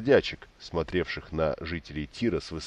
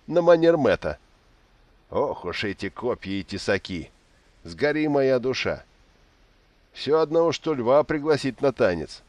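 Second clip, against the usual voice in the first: put-on high, loud drunken gurgling voice; 7 semitones higher, 3 dB louder than usual. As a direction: babble loudly, tipsy and pleased. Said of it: "пробулькал Истин".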